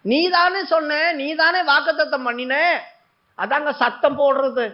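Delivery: mother wailing at God, lightly acted; acted crying plea. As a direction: cry out holding God to his word. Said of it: "அப்படின்னு அழுதா".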